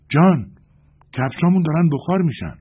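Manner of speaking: very loud, high panicked shout; alarmed shout. A narrator's reading. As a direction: scream the warning in alarm. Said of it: "داد زد".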